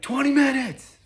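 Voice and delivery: loud guard yelling the time across the yard; shouted call. Retold or imitated. Guard yelling to inmates in the yard, loud shout. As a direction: bark it out to the whole block. Guard calling out end of rec.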